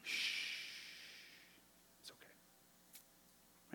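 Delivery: soft, slow whispered comfort; tender hush to a crying child; gentle whisper. Retold or imitated. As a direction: whisper it like soothing a baby. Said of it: "he welcomes you and says".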